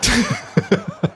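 high real laugh. Real, not acted. Laughs at his own suggestion.

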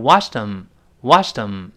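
"wash them" run together as one word, weak them; linked reading. Shown as a demonstration. Teacher links "wash them" for students, joined up. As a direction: glide from "wash" straight into a reduced "them". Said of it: "后面跟them连读".

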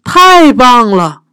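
slow, high, loud cheer; drawn-out applause; delighted cheer. Acted. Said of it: "伊丽莎白说".

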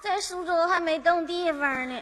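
crying. Acted. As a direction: say it through mock tears. 二姑听了哭起来. (假哭着说)

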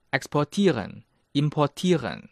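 main stress on "tieren" in "exportieren、 importieren", secondary on por. Shown as a demonstration. Teacher demonstrates German verbs, main stress on "tieren". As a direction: hit TIE in exportieren and importieren. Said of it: "主重音是放在tieren".

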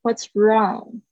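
"wrong" with an open "ah/aw" vowel. Shown as a demonstration. Teacher models the phrase, open-vowel "wrong". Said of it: "啊的声音".

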